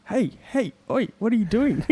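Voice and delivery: put-on high-pitched Asian-accented bystander calling out; imitated Asian accent. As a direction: mimic a protesting onlooker in an Asian accent. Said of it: "an Asian voice pop up in the video saying".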